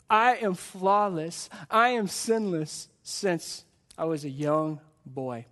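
slow, self-satisfied recital; proud. Acted. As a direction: lightly voice a man impressed by his own perfection. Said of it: "he was so full of pride".

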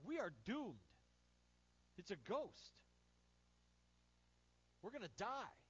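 hammed-up terror; panicked disciples. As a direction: wail it like doomed men.

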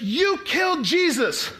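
confrontational, high-pitched, drawn-out accusation; in-their-face accusation. Retold or imitated. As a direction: throw it right in their faces, high and slow. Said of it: "he's in their face".

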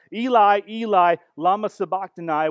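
loud, high anguished cry. Retold or imitated. Preacher voicing Jesus crying out from the cross. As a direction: cry it out to heaven. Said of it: "he cries out".

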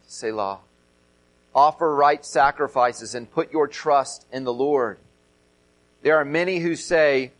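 measured, solemn reading of a psalm; scripture reading. Acted. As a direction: read it like Scripture from the pulpit. Reads Psalm aloud.

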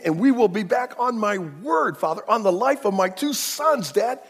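loud, earnest swearing to his father; 1 pleading oath. Retold or imitated. Reuben vowing to Jacob on his sons, loud pleading. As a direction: vow it with everything. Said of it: "he jumps up and he says".

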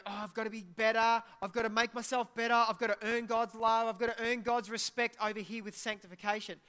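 mock the worried believer trying to earn love; anxious churchgoer. Pastor mimics a guilt-driven believer to the congregation, mock anxious. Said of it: "what we don't want you to do is go".

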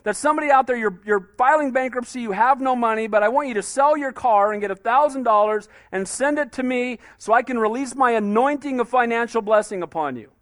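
fast, mock-shouted sales pitch; lightly mocked televangelist pitch, fast; mocking TV preacher. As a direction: ham up a greedy televangelist. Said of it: "You see some of these guys on T V saying".

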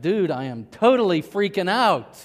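California dude mildly freaking out; Doctor Cool. Acted. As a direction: play a dude in a mild panic. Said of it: "Doctor Cool says".

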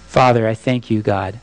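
a pastor's closing prayer. Real, not acted. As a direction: pray it simply and humbly.

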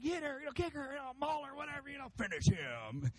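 high-pitched fight-fan yell, held back in volume; imitated shouting at the screen; mock shouting. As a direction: egg on a boxer at the TV, without real volume. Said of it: "and I'm shouting, like".

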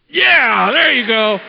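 loud, excited cheer for the lifter. Real, not acted. Pastor cheering the volunteer's curl, a loud excited whoop. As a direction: whoop him through the last inch of the curl.

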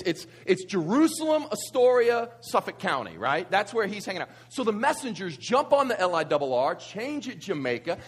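ordinary talk, nothing marked

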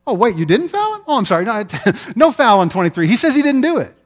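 high, loud sarcastic referee giving in; mock apologetic referee. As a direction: play a referee who folds too easily, hammed up. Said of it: "seen the referee go".

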